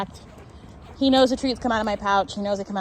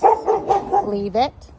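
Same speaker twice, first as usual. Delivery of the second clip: firm command; 4 dB louder, much slower than usual. Real, not acted. Commanding dog near barking dog.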